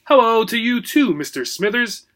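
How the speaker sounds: high polite little gerbil; sweet small rodent voice. Acted. Gerbil Obie speaks.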